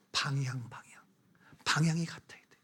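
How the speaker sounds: unvoiced hushed whisper; whispered cue to the congregation. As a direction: breathe the word like a secret. Whispers the answer word.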